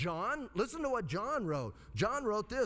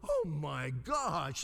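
mock amazement; 3 semitones lower, much slower than usual. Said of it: "they gotta be going".

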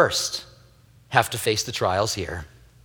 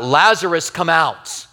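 Lazarus called out a little louder; calling out; 5 semitones higher, 4 dB louder than usual. Retold or imitated. Jesus calling Lazarus from the tomb, a raised call. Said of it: "Jesus cries out".

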